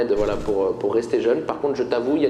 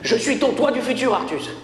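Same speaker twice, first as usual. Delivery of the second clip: a lightly hammed-up sci-fi future self, higher; Back to the Future voice; 7 semitones higher than usual. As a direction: announce the future like Doc Brown. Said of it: "j'ai vu le film hier". (voix de film de science-fiction, plus aiguë)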